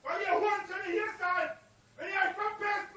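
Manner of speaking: berserk rage. Real, not acted. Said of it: "Ich schrei nur deswegen".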